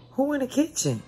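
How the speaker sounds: high, carrying call up the stairs; sharp, fast call toward the kitchen. Retold or imitated. Mother calling toward the kitchen.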